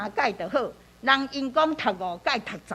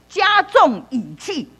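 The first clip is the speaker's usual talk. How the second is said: 加重语气 drawn out slowly and higher; emphatic; 4 semitones higher, 4 dB louder, slower than usual. Shown as a demonstration. Teacher explaining heavy reading to learners, emphatic 加重语气. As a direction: stretch 加重语气 with weight. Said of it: "重就是加重语气".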